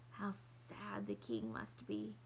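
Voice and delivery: low, slow, mournful read; sad. A narrator's reading. Mama to Papa on reading the news, sad. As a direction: sound heavy with pity, low and drawn out. Mother voiced in the story, mournful.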